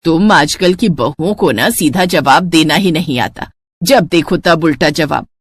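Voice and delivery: put-on tired elderly woman complaining at the table; grumbling mother-in-law. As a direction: grumble like a fed-up saas.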